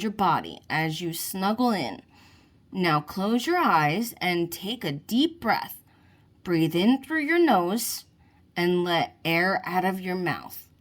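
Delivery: put-on calm, even coaching voice leading a child's relaxation; soothing relaxation script read aloud; guided relaxation. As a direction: talk the listener gently through each step. Sea child leads relaxation.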